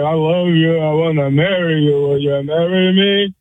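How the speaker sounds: loopy on laughing gas. Retold or imitated. Retelling his proposal under laughing gas, lightly acted loopy. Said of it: "the laughing gas".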